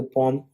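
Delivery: "poem" said as POME; "poem" in a single beat, pome; one syllable. Shown as a demonstration. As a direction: say "poem" to rhyme with home. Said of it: "pronouncing is the one syllable".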